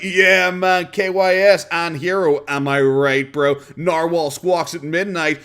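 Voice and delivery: loud, slow, hammed-up edgelord; mock edgy bro. Mocking Boogie as a try-hard edgy teen, loud and slow.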